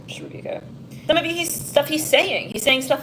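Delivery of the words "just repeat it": soft laughing whisper; whispered aside. Real, not acted. Reader aside to herself in a soft, laughing whisper. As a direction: breathe it out under a laugh.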